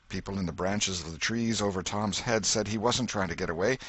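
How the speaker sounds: usual speaking voice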